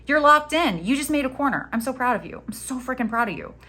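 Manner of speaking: delighted encouraging gush; proud praise. Real, not acted. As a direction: cheer the viewer on. Praising the viewer.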